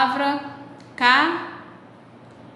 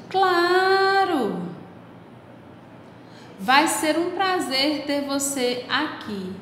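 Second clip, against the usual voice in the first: delighted reply; 3 semitones higher, slower than usual. Acted. Ant answers cicada gladly.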